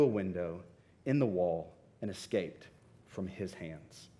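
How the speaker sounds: subdued Bible reading with long pauses; solemn scripture reading. Acted. Continues reading scripture, more subdued.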